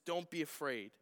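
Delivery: softly patient reassurance. Retold or imitated. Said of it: "So he's patient with them".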